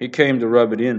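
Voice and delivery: plain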